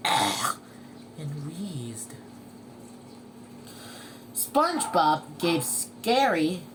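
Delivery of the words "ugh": short, low throaty cough noise; acted cough. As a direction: cough it out as the snail. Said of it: "Gary coughed".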